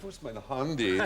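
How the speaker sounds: hammed-up camp German accent. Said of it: "can you just do handy again for me?".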